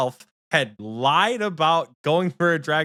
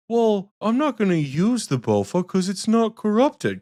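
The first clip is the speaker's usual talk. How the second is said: whiny impression; 7 semitones higher than usual.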